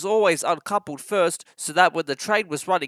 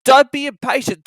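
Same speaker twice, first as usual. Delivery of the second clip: stern driver; 8 semitones higher, 9 dB louder than usual. A narrator's reading. Driver calms eager engine.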